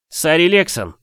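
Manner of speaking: stunned, high call of her name; surprised exclamation. Acted. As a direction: blurt the name out in amazement. Stable boy greets astonished.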